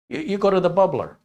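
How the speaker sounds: put-on high-pitched insistent Wisconsin accent; mock Upper Midwest accent. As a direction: play a local repeating it, Wisconsin accent. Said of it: "within a certain region speak a certain way".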